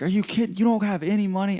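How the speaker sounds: very high, incredulous mock outrage; high-pitched disbelief, mimicking someone furious; retold angry outburst. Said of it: "starts cussing at me".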